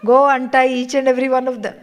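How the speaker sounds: loud, very fast order from the teacher; brisk command. Acted. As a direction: rattle off the instruction impatiently. Guru orders the student.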